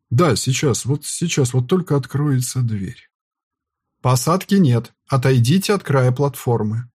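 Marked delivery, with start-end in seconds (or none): 4.0-6.9 thunderous voice. Acted. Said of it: "Громовой голос заставляет меня содрогнуться".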